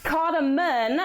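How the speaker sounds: cardamom ending in a reduced "-mən"; cardamom, last vowel reduced to a schwa; alternative pronunciation. Shown as a demonstration. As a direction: say cardamom with a short, unstressed last syllable like "mun". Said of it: "it's also t-, correct to call it".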